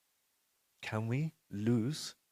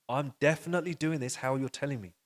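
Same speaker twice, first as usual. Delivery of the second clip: raised, emphatic self-defence; insistent protest; 4 semitones higher, 4 dB louder than usual. Acted. Disciple insists to his Guru he followed instructions, insistent protest. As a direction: argue back with conviction.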